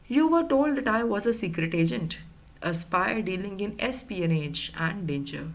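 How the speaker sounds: slow, deliberate reading of the quote; measured read-aloud; story reading. A narrator's reading. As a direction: read it out slowly, word by word. Reads the story text aloud.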